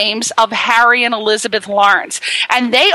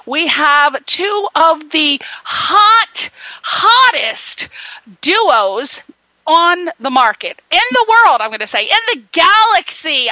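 excited hype; 4 semitones higher than usual. Real, not acted. Hyping up the guests, building up.

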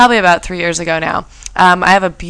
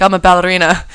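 put-on Russian accent; 3 dB louder than usual. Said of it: "he had a Russian accent".

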